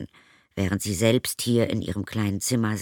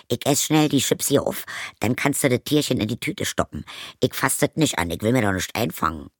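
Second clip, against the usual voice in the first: higher, brash stepmother; 4 semitones higher, faster than usual. Acted. Stepmother proposes a crude idea to Zoe, brash. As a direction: pitch her up, pushy and crude.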